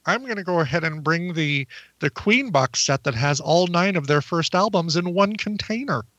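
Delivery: lightly exaggerated version of own voice; mildly put-on self-parody; impersonation of himself. Shown as a demonstration. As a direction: play yourself making an announcement. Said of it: "Here's my impersonation of me".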